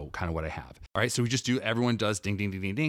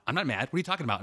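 mock denial of anger; 5 semitones higher, much faster than usual. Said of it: "I can show that I'm angry, but say that I'm not".

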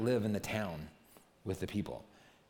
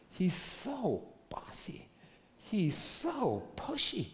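mock whisper; 7 semitones higher, much slower than usual. Mocking Peter's bossy nature.

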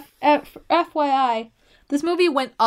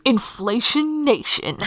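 slow, drawn-out DJ announcement; radio DJ voice; slower than usual. Shown as a demonstration. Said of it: "Done in my best radio D J voice".

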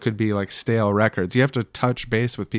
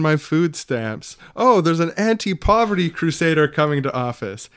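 lightly sarcastic, higher-pitched put-on delight; mock gratitude; 5 semitones higher than usual. Welfare recipient hailing the anti-poverty crusader, mildly sarcastic. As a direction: play an impressed welfare recipient, tongue in cheek.

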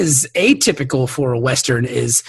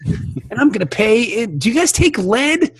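menacing gunslinger; 7 semitones higher than usual. Acted. Gunslinger threatening barber.

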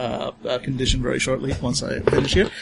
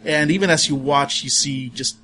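slow, hushed horror description; creepy scene narration; slower than usual. Acted. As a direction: draw out each gruesome detail. GM describes horror room slowly.

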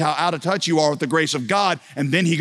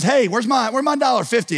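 much higher, louder demand for the dollar fifty; angry demand; 9 semitones higher, 3 dB louder than usual. Retold or imitated. Forgiven debtor shaking down his buddy, angry. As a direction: jab the question, indignant and high.

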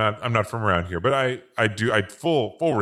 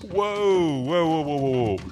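alarmed whoa; 6 semitones higher, slower than usual. Acted. Sees the enema.

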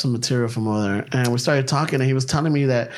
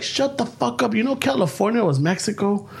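higher, scoffing retort; retold scoff at coworker; 6 semitones higher than usual. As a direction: brush off the coworker, pitched up. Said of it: "And I'm like".

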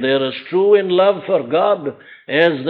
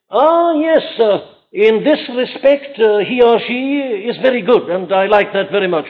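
higher-pitched, measured approval; qualifying lover; 5 semitones higher than usual. Acted. Preacher mimics a person in love itemising likes, mock approval. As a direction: imitate a lover weighing up the beloved point by point. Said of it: "a person in love with another person saying".

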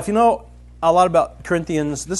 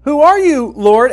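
higher, louder, pressing question; urgent cry; 5 semitones higher, 7 dB louder than usual. Retold or imitated. Saul knocked down, crying out to the Lord. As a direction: call it out in awe and alarm. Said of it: "Saul's response is".

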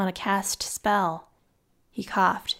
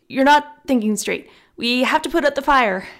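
urgent; 4 semitones higher, 7 dB louder than usual. A narrator's reading. Friend urges him.

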